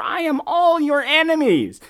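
high, hammed-up last words; dying last words. Ron's last words as he dies, hammed-up. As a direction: ham up a dying gasp.

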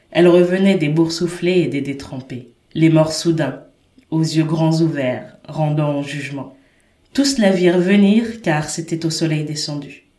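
measured, solemn novel reading aloud; literary reading. Acted. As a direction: read the opening page like a storyteller. Reads the book's first page.

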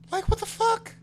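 high, loud, disbelieving yell; outraged outburst. Real, not acted. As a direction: blurt it out in shocked outrage. Outraged rant about Lawrence.

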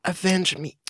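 high, hammy dying bird voice; overacted death scene. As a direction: gasp out your last words, overdoing it. Dying bird's last words.

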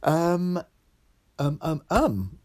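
hiccuping on the ums; with hiccups. Real, not acted. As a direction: hiccups breaking the words. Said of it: "Sorry, I've got hiccups".

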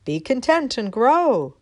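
a friendly nudge of advice; friendly wind. Acted. North wind kindly advising the little acorn. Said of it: "gave her a friendly toss and said".

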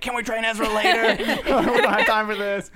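high, laughing impatient complaint; impatient Zeb. Retold or imitated. Quoting Zeb rushing the Jedi lesson. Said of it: "even Zeb's like".

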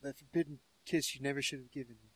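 very soft fast whisper; mock whisper. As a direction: breathe it quickly and softly. Quoting Padmé line.

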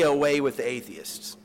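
a persuasive, put-on voice offering an easy way out; coaxing official. Proconsul urging Polycarp to renounce, coaxing. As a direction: coax him to say it, as if it costs nothing. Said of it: "at one point he says".

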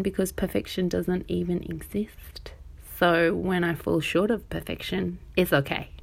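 breathy whispered aside; soft confiding whisper. Real, not acted. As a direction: drop to a whisper as if sharing a secret. Aside on perfection.

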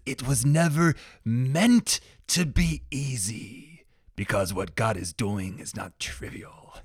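slow, high Scottish brogue that leans hard on meant; a bad Scottish impression that settles toward her own pitch; terrible Scottish accent. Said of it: "this is gonna be a terrible accent".

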